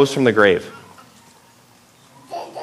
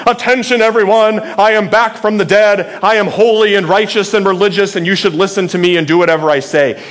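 pompous religious speech; 2 semitones higher than usual. Retold or imitated. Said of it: "some serious speech in the temple".

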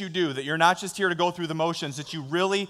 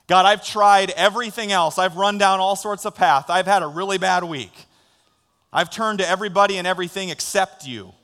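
louder, pleading confession; earnest plea; 3 semitones higher, 6 dB louder than usual. Pretend. Pastor voices a worn-out believer turning to God, louder plea. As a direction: pour it out like a desperate prayer.

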